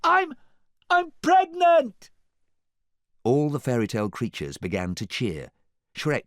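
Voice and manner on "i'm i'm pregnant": high, loud, slow announcement; calling out. A narrator's reading. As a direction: call it across the water. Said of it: "called out".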